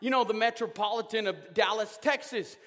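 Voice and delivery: mock outrage about the traffic cones; fed-up rant. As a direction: vent like a stuck commuter fed up with the roadwork. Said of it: "and you're like".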